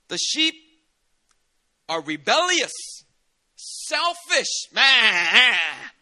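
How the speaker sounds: high, loud preaching cry that breaks into laughter; a pastor calling the sheep wicked, shouting. Real, not acted. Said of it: "preaching climax, laughing shout".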